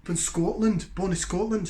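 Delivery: a light, admittedly bad Scottish accent. Beer reviewer hamming a Scottish brewery's home, bad Scottish accent. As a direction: have a go at a Scottish accent and know it's not great. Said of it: "Apologies for the accent".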